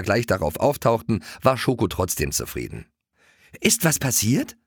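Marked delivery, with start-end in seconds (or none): 3.6-4.6 put-on higher, worried girl asking; a touch of worry in the question. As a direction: ask with mild concern. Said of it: "fragte Lotte besorgt".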